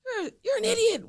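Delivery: lightly voiced boyfriend scorn; mock boyfriend insult. Boyfriend insults her mid-argument, lightly mimicked. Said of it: "Kenny was like".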